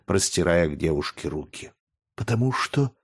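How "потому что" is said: mild tearful catch, rising; a hint of a weeping girl; sad, sob-choked. A narrator's reading. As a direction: barely get it out through tears. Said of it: "с грустным голосом, который заглушали рыдания".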